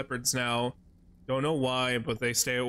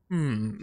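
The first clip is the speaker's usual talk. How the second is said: a short, curious hum, as if checking a locked door; imitating the character's puzzled hmm; inquisitive hmm. Imitating the game character's noise at a locked door, a curious hum. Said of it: "he didn't make the inquisitive, noise".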